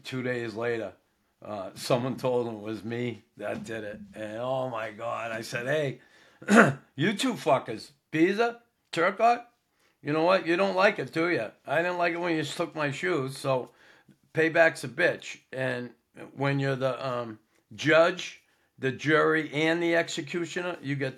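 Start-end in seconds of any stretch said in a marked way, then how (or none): 5.7-15.4 mock telling-off. Confronting teammates over the prank.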